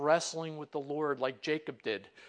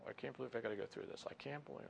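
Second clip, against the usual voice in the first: fast, much softer grumble under the breath; murmured complaint; 6 semitones lower, 13 dB quieter, much faster than usual. Pretend. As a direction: mutter it so nobody hears. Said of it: "we're not to murmur under our breath".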